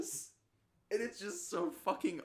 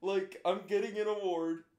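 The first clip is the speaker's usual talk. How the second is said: mock tearful speech; 3 semitones higher than usual. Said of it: "And he's like".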